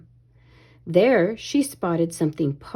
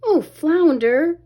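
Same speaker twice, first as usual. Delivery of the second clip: slow whispered sigh; slow dismayed whisper; 7 semitones higher, 5 dB louder, slower than usual. A narrator's reading. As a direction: breathe it out sadly, slowly. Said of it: "Ariel sighed".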